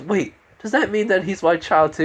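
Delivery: high, acted questioning voice; surprised woman.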